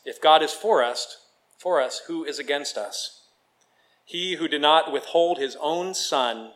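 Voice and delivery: measured, reverent reading aloud; scripture reading. Acted. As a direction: read it as scripture, pausing between phrases. Reads scripture aloud to congregation.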